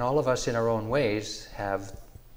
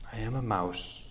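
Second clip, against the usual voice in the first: shaky voice. Acted. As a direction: let the voice shake. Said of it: "she said with a shaky voice".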